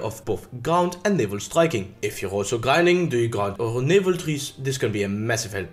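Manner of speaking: put-on English with a thick French accent. I hope you all enjoyed, uh, my French accent.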